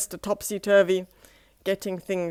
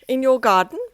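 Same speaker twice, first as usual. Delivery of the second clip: smiling ask; 5 semitones higher, 9 dB louder, faster than usual. Acted. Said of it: "he smiled".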